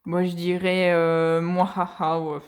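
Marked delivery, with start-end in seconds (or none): 0.9-2.2 low, slow basic villain laugh; a lazy, low evil cackle. Shown as a demonstration. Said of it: "mon rire diabolique".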